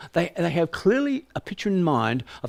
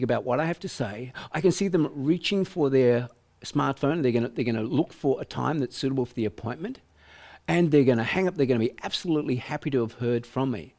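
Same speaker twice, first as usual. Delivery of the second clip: positive visualisation. Shown as a demonstration. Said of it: "even close your eyes and consider".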